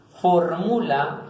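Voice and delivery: "fórmula" drawn out, stressed on the O. Shown as a demonstration. Teacher gives an esdrújula example, slow and stressed. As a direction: slowly lean on the first vowel of "fórmula". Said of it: "en la O".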